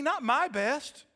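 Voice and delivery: slow, loud, high emphasis on every word; emphatic close. Acted. Pastor rejecting his own plan, slow and emphatic. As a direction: lean hard on each word. Climax of appeal.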